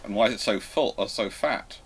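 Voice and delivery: ordinary delivery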